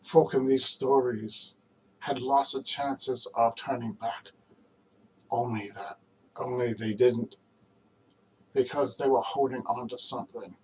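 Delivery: earnest recitation, hesitant and pausing toward the close; dramatic film monologue. Acted. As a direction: reassure a friend with measured, spaced-out phrases.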